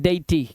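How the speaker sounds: "deity" as DAY-i-tee, e and i apart; teacher's model of "deity" in three syllables; vowels sounded separately. Shown as a demonstration. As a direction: give each vowel of "deity" its own sound. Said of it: "स्वतंत्र रूप से".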